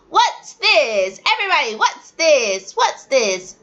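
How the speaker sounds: teacher prompting a class; teacher drilling. Shown as a demonstration. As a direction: call the whole class to answer. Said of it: "you would just teach them".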